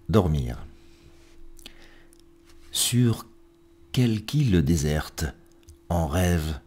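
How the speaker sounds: measured verse reading with pauses between lines; poetry recitation. Acted. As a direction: recite each line deliberately, letting endings fall away. Reads poems aloud on programme.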